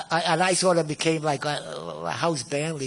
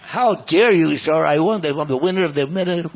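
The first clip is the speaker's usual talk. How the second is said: louder mock outrage; indignant Serge; 6 dB louder than usual. Serge scolding the hotel manager, louder mock outrage. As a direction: puff up like an offended star. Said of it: "he had a very eloquent accent".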